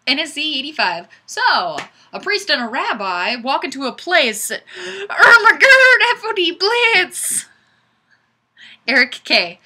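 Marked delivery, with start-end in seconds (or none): 4.8-7.5 a gasp, then much higher and louder, slow; mock shock. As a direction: act scandalised by the joke. Gasp at the joke comment.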